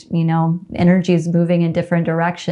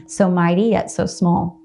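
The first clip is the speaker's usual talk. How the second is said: tender letter read aloud. Acted. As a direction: read it like a love letter to yourself, gently. Reads aloud her letter to herself.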